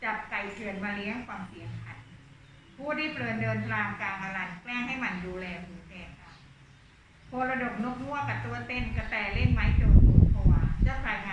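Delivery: measured, lilting Thai verse reading; poem recital. Acted. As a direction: read the verse aloud for the class. Teacher reads classic verse.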